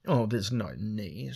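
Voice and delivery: slow, amused mockery; mocking smile. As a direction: smile it with a sneer. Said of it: "smiled Miakla mockingly".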